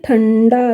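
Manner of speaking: slow ठंडा with a held ण sound; nasal drawn out. Shown as a demonstration. Teacher showing the nasal in ठंडा, drawn out. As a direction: linger on the ण sound inside ठंडा. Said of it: "ये वाला अण आ गया".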